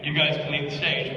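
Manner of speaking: low, understated polite British request; politely ask, without any push; mild, courteous delivery. Shown as a demonstration. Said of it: "rather than politely say".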